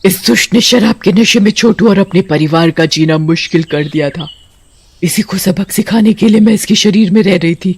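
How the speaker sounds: lightly voiced righteous witch. The good witch explaining herself to the priest, mildly stern. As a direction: tell them why you punished him, steady and stern.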